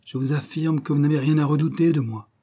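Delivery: calm the frightened men with authority; reassuring detective. Acted. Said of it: "repartit Paulin Broquet". (le détective rassure fermement, voix un peu plus haute)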